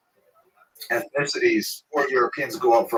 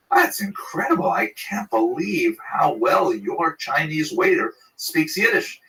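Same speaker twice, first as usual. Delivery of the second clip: higher, amazed and drawn out; astonished customer; 5 semitones higher, slower than usual. Retold or imitated. Diner to manager, amazed and higher. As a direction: marvel at it slowly. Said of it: "he says to him in Yiddish".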